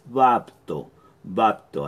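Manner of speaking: "bapto" dicho tal como se escribe, b-a-p-t-o; pronunciación de bapto. Shown as a demonstration. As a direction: pronuncia "bapto" claro, con la p y la t. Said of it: "así como suena". ("bapto", tal como suena en español)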